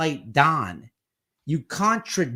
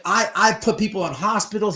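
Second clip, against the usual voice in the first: higher-pitched mock tough-guy boast; acting tough; 5 semitones higher, 4 dB louder than usual. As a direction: imitate someone projecting toughness. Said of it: "He's acting all tough, projecting all tough".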